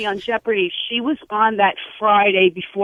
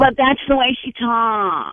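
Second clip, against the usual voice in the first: slow, drawn-out mimicry of an accent; stuffed-nose impression; 2 semitones higher than usual. Caller defending an impression of a relative, stuffed-nose mimicry. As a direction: imitate her as if the nose were plugged. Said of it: "like you got a tampon in your nose".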